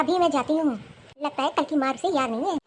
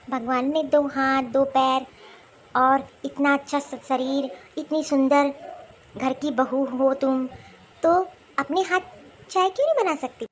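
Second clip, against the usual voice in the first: slow sarcasm. Acted. Sarcastic taunt at younger sister-in-law.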